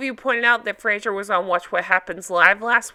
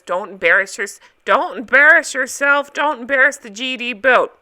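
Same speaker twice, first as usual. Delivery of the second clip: Captain Lee impression; 5 dB louder than usual. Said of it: "doing my Captain Lee".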